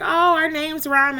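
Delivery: high, loud, slow gush of delight; excited delight. Retold or imitated. Telling Patricia their names rhyme, delighted and high. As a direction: savour the discovery out loud.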